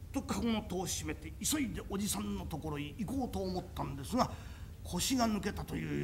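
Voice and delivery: hushed unvoiced whisper; a frightened whisper while fleeing to the uncle. A narrator's reading. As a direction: breathe it out in a scared whisper. Narration whispered in fear.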